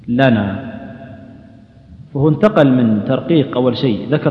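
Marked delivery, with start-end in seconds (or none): 0.1-0.7 لنا with a thin, fronted "la"; light lam. Shown as a demonstration. Quran teacher giving another example, لنا with light lam. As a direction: keep the l and vowel of لنا clearly light. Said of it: "تبين الترقيق الذي فيها".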